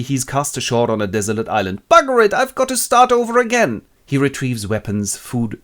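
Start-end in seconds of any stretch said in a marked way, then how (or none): 1.9-3.8 castaway grumble. Acted. Stranded Robinson grumbles.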